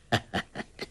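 breathy hearty ho-ho laugh; soft chuckle. A narrator's reading. Old beggar chuckling at the girl, soft laugh. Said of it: "洪七公呵呵笑道".

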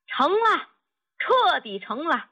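high-pitched triumphant announcement; jubilant. A narrator's reading. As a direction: proclaim success in delight. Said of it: "哈哈大笑， 声音传遍了整个小院儿".

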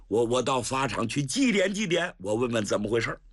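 put-on flustered old general, fast and urgent; rushing in, brushing off the officials; old general's hurried voice. Cheng Yaojin hurrying to the execution ground, flustered.

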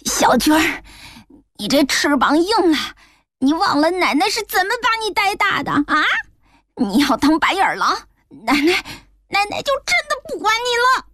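put-on a grandmother reproaching an ungrateful boy; loud scolding grandmother. A narrator's reading. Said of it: "大声说".

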